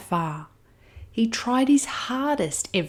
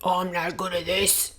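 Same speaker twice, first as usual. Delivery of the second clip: mild dejected cry; 5 dB quieter than usual. Acted. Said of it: "he cried".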